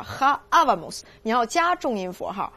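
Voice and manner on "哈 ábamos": slow "ábamos", leaning on the opening á; stress on ábamos' first á. Shown as a demonstration. Teacher showing where the accent falls, stressed á in "ábamos". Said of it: "重音在哪儿？".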